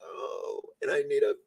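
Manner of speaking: high, slow, laughing mock cry; laugh-cry for help; half-laughing mock despair; laughing lament. Real, not acted. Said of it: "See the drama I have to go through".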